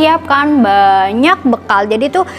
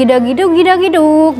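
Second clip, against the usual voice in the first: drum imitation; 5 semitones higher, 4 dB louder than usual. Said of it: "suaranya bukan dugi".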